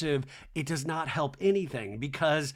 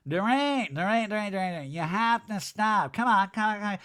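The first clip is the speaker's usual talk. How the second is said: higher, put-on pleading voice; Erica pleading; 5 semitones higher than usual. Erica urging Dorit to stop, imitated pleading. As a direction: talk her down with mock urgency.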